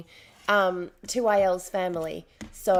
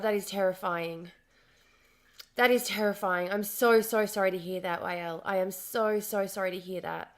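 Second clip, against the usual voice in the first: softer, lower sympathy; quiet sorrow for a friend's news; sympathetic; 3 semitones lower, 4 dB quieter than usual. Real, not acted. Streamer consoling Wael about missing family, softly sad.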